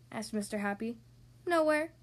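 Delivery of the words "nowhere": higher, plaintive one-word answer; heartbroken sigh. Acted. Mister Nobody answering where he's from, sighing sadly. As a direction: let it out as a sad sigh. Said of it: "sighed the sort of sigh that breaks your heart".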